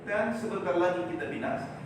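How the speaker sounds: high, loud panicked appeal; loud plea. Retold or imitated. Disciples wake Jesus in the storm, shouting high.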